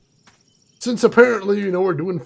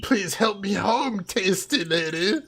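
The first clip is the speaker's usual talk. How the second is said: hissing witch; 4 dB quieter, slower than usual. Retold or imitated. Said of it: "The hissing".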